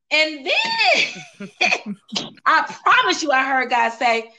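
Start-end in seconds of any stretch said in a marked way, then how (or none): 0.1-3.3 higher and slower, the voice cracking; choking up and laughing at once at the memory; tearful laugh. Real, not acted. Telling her friend she heard God, tearful and cracking. Overwhelmed recalling hearing God.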